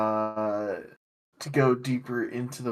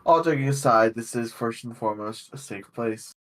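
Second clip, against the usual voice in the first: measured, fluent prepared monologue; game master's opening speech; faster than usual. Real, not acted. Game master opening the session to players, prepared monologue. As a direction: deliver it as a sincere table preamble.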